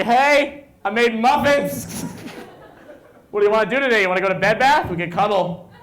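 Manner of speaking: high, loud, gushing sweetness; overeager lover. Retold or imitated. Morning after, gushing to the girl in his bed, high and eager. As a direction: chirp it like a puppy in love. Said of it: "I'm like".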